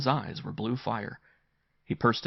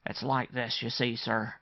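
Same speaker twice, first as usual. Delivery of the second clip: raised, deferential servant's voice; respectful servant; 3 semitones higher than usual. Acted. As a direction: begin explaining respectfully to a gentleman. Bassett explains to uncle.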